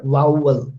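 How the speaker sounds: VOWEL in two clear syllables, VOW-ul; careful pronunciation. Shown as a demonstration. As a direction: round the lips into the "ow" of Vowel. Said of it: "how will you pronounce this word".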